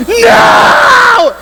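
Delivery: long, high screamed answer; retold screaming. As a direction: scream the word out, drawn out and hammed up. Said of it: "I'm screaming".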